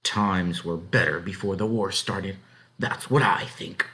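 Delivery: slow, firm statement; low and firm. Acted. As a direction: lay down her view. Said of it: "Her voice became low and firm".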